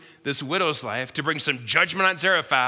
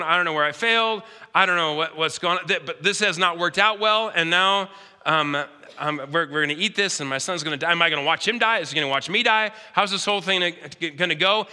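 raised, strained voice of a widow near tears; a hint of tears, pitched up; imagined tearful widow; 4 semitones higher than usual. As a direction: let the despair climb as she runs out. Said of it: "she's probably in tears going".

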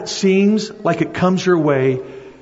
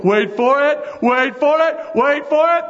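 rising higher each time, building suspense; building wait for it; 10 semitones higher than usual. Shown as a demonstration. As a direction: climb in pitch with every repeat. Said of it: "you know, go".

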